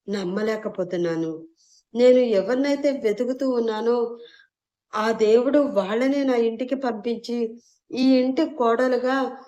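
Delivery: father figure moved and confused; bewildered. Acted. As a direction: wonder aloud, overcome. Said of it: "అయోమయంగా గిరిధర్".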